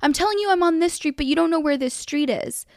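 put-on indignant retort; retold attitude. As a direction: imitate a driver giving attitude. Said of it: "she was kinda giving me attitude".

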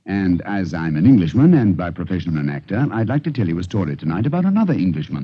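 measured, formal host address; radio host intro. Acted. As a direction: introduce the evening's tale like a gracious host.

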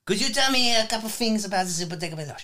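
put-on light French accent, quickening at the end; a hint of French chef host; mock French chef. Chef asking his guest about the restaurant, light French accent. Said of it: "mimic me with my accent".

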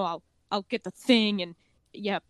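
a hint of a gruff, detached character; mildly gruff, short delivery; lightly gruff. Imitating a cyberpunk character, lightly gruff. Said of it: "like, gruff".

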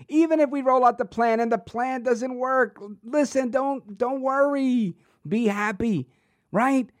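mock breezy reassurance. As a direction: pretend to shrug off the failure. Mockingly voices the politician's attitude.

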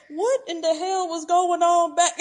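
high, loud, laughing disbelief. Retold or imitated. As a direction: laugh through the outrage. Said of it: "I'm like".

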